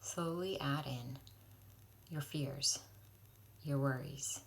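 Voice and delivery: slow guided-imagery voice with long pauses; guided prayer. Real, not acted. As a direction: lead them gently and unhurriedly into prayer. Leads a guided prayer meditation.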